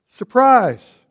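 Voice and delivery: triumphant preacher's shout; joyful shout. Acted. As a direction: fling the word out to the whole church. Preacher proclaims the resurrection.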